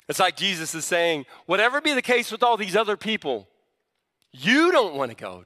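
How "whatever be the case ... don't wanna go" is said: YOU swooping up, then falling; single them out with a big YOU; emphatic YOU. Retold or imitated. Jesus asking the twelve if they'll leave, emphatic YOU. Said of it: "the "you" is em-, emphatic".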